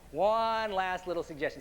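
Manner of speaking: measured, deliberate hypnotist voice; hypnotic suggestion. Acted. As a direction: plant the suggestion firmly.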